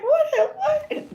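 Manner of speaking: high, slow laughing what-the; stunned disbelief. Retold or imitated. Walking in on her boyfriend, shocked and laughing. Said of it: "And I'm like".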